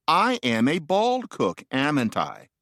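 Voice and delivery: slow, measured grammar example with a tag question; recited example sentence. Shown as a demonstration. Lecturer showing the pattern of tag questions, slow and measured. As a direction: recite it slowly, word by word.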